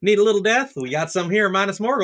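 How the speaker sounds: a folksy Southern villain; southern accent. Pretend. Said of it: "Witch King with a southern accent".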